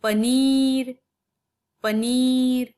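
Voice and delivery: पनीर called out loud, ई held long. Shown as a demonstration. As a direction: call पनीर out to the class. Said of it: "लंबा होता है". (पनीर ज़ोर से, ई लंबा खींचकर)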